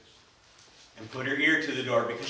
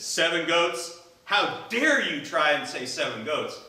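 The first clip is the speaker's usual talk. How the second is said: a touch of royal outrage; how dare you, said with mild anger; mad king; 3 semitones higher, 4 dB louder than usual. Acted. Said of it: "he got mad".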